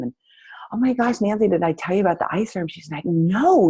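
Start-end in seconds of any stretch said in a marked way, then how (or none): 0.7-2.7 gushing. Retold or imitated. Gushing retold sales chat with friend. 3.0-3.7 astonished. Retold or imitated. Friend's amazed reaction, retold.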